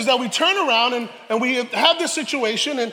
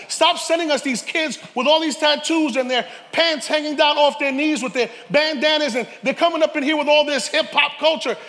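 mock complaint; 4 semitones higher than usual. Pastors complaining about street kids.

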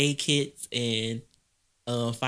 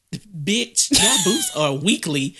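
raised, sassy imitation of mama; mock cussing out; 4 semitones higher, 4 dB louder, slower than usual. Mama cussing out the flea market seller, mock anger. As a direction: snap it back like mama did. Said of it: "she cussed out".

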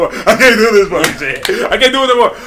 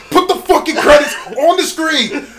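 imitating Dex barking; 10 semitones higher, 5 dB quieter than usual. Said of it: "I can see Dex as a dude".

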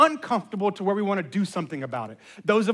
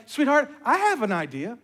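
lightly voiced sweet wife, higher pitch; angelic wife; 4 semitones higher than usual. Imitating wife soothing an overwhelmed daughter, mildly angelic and sweet. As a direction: gently offer help like an angel. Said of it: "comes in like an angel".

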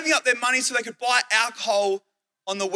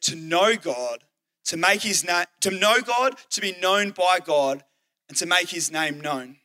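slow, measured, lower delivery; broken down slowly; 4 semitones lower than usual. Retold or imitated. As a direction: lay out each phrase deliberately, piece by piece. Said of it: "then I broke it down".

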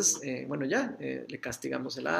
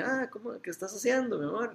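higher, light and breezy, acting like nothing is wrong; casual sweet question; 6 semitones higher than usual. Father to son caught on the iPad: breezy, higher and falsely casual. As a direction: pretend not to suspect anything, keep it sweet. Dad walks in, plays it casual.

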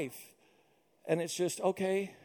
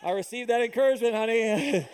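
chuckling through the words; a giggly thanks to the wife; answering the wife with a laugh; laughing reply; 4 semitones higher than usual. Retold or imitated. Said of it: "And I'm like".

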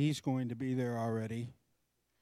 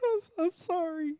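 meek apology. Retold or imitated. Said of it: "and I'd be like".

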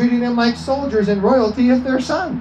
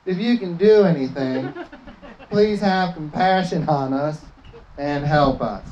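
mock whiny plea; 4 semitones lower than usual. Shown as a demonstration. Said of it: "I like to say it how it's written".

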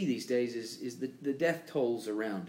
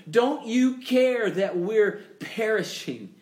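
panicked plea; 7 semitones higher, 5 dB louder, slower than usual. Retold or imitated. Panicked disciples in storm.

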